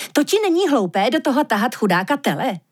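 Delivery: ušklíbnutí. Acted. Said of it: "ušklíbla se liška".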